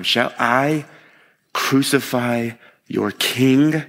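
slow, deliberate mocking question; drawn-out mock question. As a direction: ask it mockingly, drawing out the words. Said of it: "Again, mocking them".

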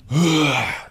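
high mock vomiting noise; imitated retching. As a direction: imitate someone throwing up. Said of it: "just, like, throwing up everywhere".

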